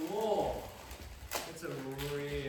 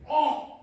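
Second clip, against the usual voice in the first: anguished exclamation; 8 semitones higher, 9 dB louder than usual. Acted. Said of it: "it makes me just go like".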